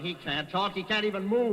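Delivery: high, loud, rattled denial. Acted. Killer brother loses his nerve, high and loud. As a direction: voice climbing as panic rises. Franklin panics at the news.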